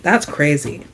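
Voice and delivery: low, soft deadpan; understated, privately stunned reaction; inner-thought disbelief. Retold or imitated. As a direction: murmur it low, as if thinking it. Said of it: "in my mind, I'm like".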